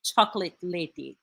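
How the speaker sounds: hammed-up Senegalese villager accent, badly faked; clumsy mock Senegalese accent; terrible Senegalese accent. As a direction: put on a bad Senegalese accent, as a puzzled villager. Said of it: "that's a terrible accent".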